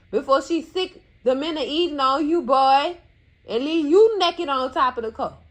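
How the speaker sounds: loud angry scold. Real, not acted. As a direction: lay into him, voice climbing. Scolding the man, getting louder.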